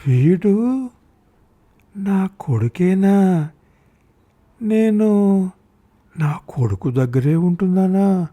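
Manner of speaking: put-on high, slow, breathless disbelief of a frail old woman; half-whispered wondering, can't believe it; disbelieving old mother. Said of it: "అమ్మ గొంతులో అపనమ్మకం". (అపనమ్మకంగా వృద్ధ తల్లి)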